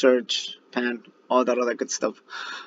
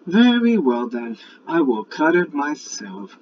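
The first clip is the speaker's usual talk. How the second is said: higher, louder, slow determined hen; hen resolved; 5 semitones higher, 5 dB louder, slower than usual. Acted. Little red hen deciding alone, slow firm higher voice. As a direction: say it firmly, then do it herself. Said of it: "said the little red hen".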